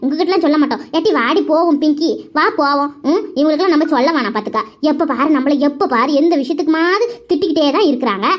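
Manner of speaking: mildly insolent, huffy complaint; cheeky defiance. Acted. Daughter refusing to tell her scolding mother, cheeky and huffy. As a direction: talk back like an offended child. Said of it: "திமிரு பிடிச்ச கழுதை எப்படி பேசுறா பாரு".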